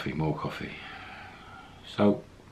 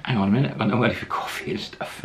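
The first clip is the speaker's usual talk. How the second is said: quick, raised-pitch interjection; sudden protest; 6 semitones higher, faster than usual. Retold or imitated. Broke Solomon realises he can't buy coffee, hurried protest. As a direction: blurt it out fast, acting his realisation. Retold sudden worry about no money.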